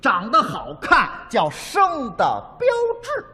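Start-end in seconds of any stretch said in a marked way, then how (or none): 1.5-3.2 生的标志 drawn out in Suzhou dialect; slow Suzhou sounds on 生的标志; Suzhou pronunciation. Shown as a demonstration. Comic teaching Suzhou for good-looking, 生的标志 in Suzhou pronunciation. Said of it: "苏州话不说你了".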